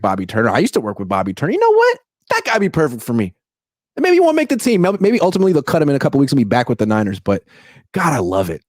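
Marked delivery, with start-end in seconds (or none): 1.5-8.6 gloating rival coach. Retold or imitated. Voicing McVay gloating.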